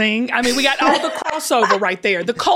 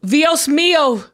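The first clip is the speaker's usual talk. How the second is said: slow, careful Spanish imitation; attempted Spanish accent; 2 semitones higher, slower than usual. Shown as a demonstration. Second try at co-host's phrase, attempted Spanish accent. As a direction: copy the Spanish accent slowly. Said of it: "nailing this accent".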